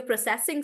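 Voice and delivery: "processing" stressed on the second syllable, pro-CESS-ing; weak pro, strong CESS in "processing"; verb stress. Shown as a demonstration. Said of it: "stress comes to the last part".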